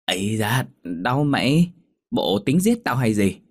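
hurt and grumbling; pained protest. Acted. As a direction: protest while it hurts. Mother hurt, protesting to daughter.

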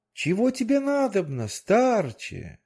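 high fairy-tale fish voice, stately; goldfish voice. Acted. The goldfish asks the old man again, high tale voice. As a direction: lift the voice high for the magic fish.

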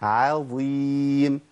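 عظيم with a light, thin ain. Shown as a demonstration. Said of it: "هي عا".

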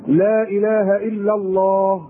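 slow, drawn-out la ilaha illa Allah with still lips; said without moving lips. Shown as a demonstration. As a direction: say لا اله الا الله slowly, lips barely moving. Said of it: "انا هقول وبص لشفايفي".

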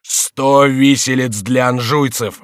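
loud, slow vengeful call; king's exclamation. A narrator's reading. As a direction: proclaim the gallows loudly. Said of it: "восклицал король". (громкое восклицание короля)

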